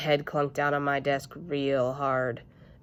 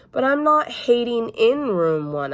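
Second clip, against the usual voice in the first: put-on child arguing; 7 semitones higher, 6 dB louder than usual. Junie B arguing with teacher.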